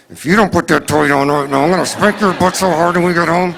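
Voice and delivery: ventriloquist mom. Retold or imitated. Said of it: "you do that ventriloquist thing".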